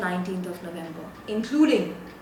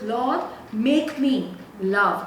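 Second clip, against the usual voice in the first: sample prayer; 4 dB louder, slower than usual. Pretend. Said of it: "We went with".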